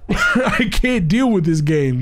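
slow, laughing disbelief; can't believe it laughter. Real, not acted. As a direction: laugh through the words.

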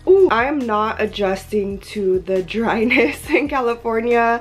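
hoarse, half-lost voice. Real, not acted. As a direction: talk through a hoarse, worn-out voice. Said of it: "As you can hear from my voice".

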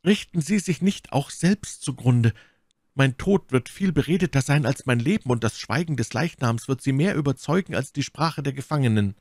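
lightly voiced defiant woman; My Lady. A narrator's reading.

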